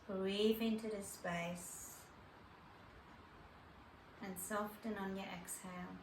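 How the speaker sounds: calm meditation guide with long pauses; guided meditation. Acted. Yoga teacher guiding listeners to their breath, calm meditation voice. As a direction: lead them gently inward, leaving space between phrases.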